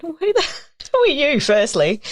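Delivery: high, incredulous boss asking who's calling; mock the boss's baffled question; boss on the phone. Boss baffled by a cold call, high incredulous voice. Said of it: "And he went".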